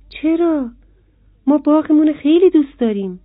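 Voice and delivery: high, quick little beetle protesting. A narrator's reading.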